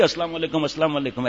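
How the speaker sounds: just a light turn of the greeting; light soft salam. Shown as a demonstration. Teacher showing the lighter salam, soft. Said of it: "ایسا تھوڑی".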